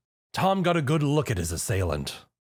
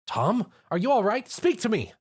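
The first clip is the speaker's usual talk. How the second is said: worried plea; 11 semitones higher than usual. A narrator's reading. Twilight worried.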